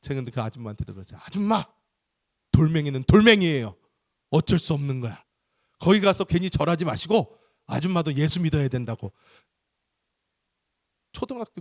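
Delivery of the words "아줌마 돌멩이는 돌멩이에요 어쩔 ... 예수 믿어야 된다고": bold lecturing. Retold or imitated. Child lecturing a mother.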